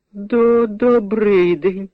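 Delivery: high, slow stammered greeting; awestruck stammer. Acted. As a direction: stammer it out, dazzled. Awestruck heroine greets the giant.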